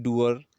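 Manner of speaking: "डूअर" with the final R sounded; American final R. Shown as a demonstration. Teacher shows American English pronunciation, R sounded in "डूअर". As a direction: close "डूअर" on an audible American R. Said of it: "American English में हम इसको pronounce करते हैं".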